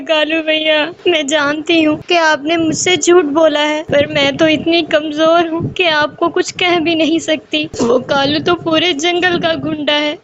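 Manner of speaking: a hint of sobbing sparrow alone in the tree; crying to herself. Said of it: "روتے ہوئے خود سے کہنے لگی". (ہلکا سا روتے ہوئے)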